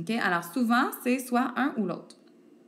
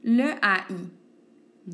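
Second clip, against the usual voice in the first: slow spelling; 4 dB louder, much slower than usual. Shown as a demonstration. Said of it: "avec le E accent grave ou".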